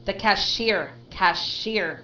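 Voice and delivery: CASHIER as "cash-SHEER", two clear parts; model pronunciation. Shown as a demonstration. Teacher corrects a student's word, careful pronunciation of CASHIER. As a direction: model "cash-SHEER", stressing the second syllable. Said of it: "how to say, the cashier".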